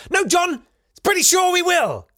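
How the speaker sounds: high-pitched comic protest; mock outburst. Comedian contradicting the columnist's hopeful line, high mock protest. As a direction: object in a high, indignant squawk.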